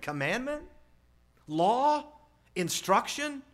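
high, rising incredulous questions; mock disbelief. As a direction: query each word as if scandalized. Mock disbelief at old parenting words.

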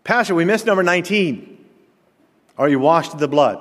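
high-pitched imitation of an eager churchgoer; mimicked high interruption; piping up. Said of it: "He piped in".

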